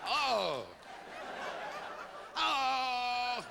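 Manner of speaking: drawn-out drunken attempt; a touch of boozy effort; drunk man practicing. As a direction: stretch the word out, lightly drunk. Drunk man practicing hello on porch.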